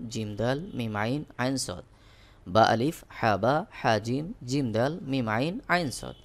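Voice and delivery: steady letter-name chanting, each pair set apart; teacher chanting letter pairs to memorise; rote drill recitation. Shown as a demonstration.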